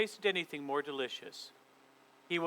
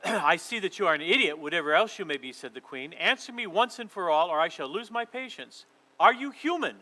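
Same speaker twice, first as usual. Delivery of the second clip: impatient queen; 4 dB louder than usual. Acted. Queen threatens, losing patience.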